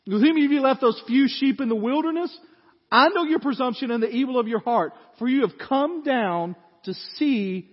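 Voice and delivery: loud, high indignant rebuke; older brother Eliab accusing David of pride, angry. Acted. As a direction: tear into him with scorn. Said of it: "Eliab's anger was kindled".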